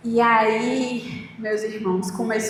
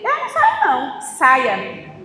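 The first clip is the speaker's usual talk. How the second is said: defiant refusal. Retold or imitated. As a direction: plant your feet and refuse. Defying the spirit telling her leave.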